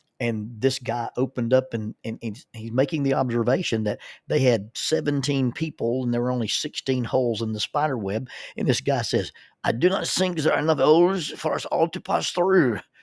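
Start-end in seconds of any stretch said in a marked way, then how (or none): 9.6-12.8 put-on real, unforced French accent. Recalling a group exercise, the speaker quotes a participant from France in a French accent. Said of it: "He had a real French accent".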